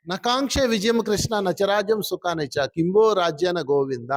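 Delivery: slow, measured Sanskrit shloka; verse recitation. Acted. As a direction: recite the verse, drawing out the line endings. Recites a Gita verse from memory. (శ్లోకం నెమ్మదిగా సాగదీస్తూ చదవడం)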